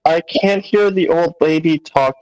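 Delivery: normal talking voice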